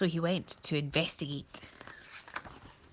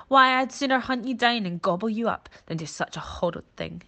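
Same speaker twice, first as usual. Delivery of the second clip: louder, a touch higher, menacing boast; boastful lion; 5 semitones higher, 6 dB louder than usual. Acted. Lion boasts to the monkey, a loud menacing brag. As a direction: brag about hunting him down. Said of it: "said Lion".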